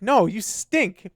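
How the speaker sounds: drawn-out refusal. Retold or imitated. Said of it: "I'm like".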